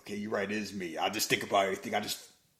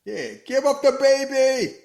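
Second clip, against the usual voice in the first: high, loud, slow demand; crowd demand; 12 semitones higher, 9 dB louder, slower than usual. Retold or imitated. Mob demanding the heroes give up the baby, slow loud yell.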